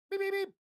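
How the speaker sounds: high beeping alarm noise; alert beeps. Pretend. Alarm beeps for the floating head, high mock beeping. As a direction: beep like an alarm going off.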